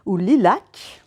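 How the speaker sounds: whispered aside, voiceless; a playful whispered lilac; whispered English word. Pretend. Tries the English pronunciation.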